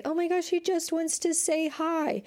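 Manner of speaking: high, sugary mock stranger voice; cheery stranger. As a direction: chirp it like a careless dog owner. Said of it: "bring their dogs up to you and say".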